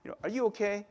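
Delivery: gently checking in, at an easy volume; acted-out mild concern for a friend. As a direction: ask with care, without accusing. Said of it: "he said in a very, uh, you know, like, concerned way".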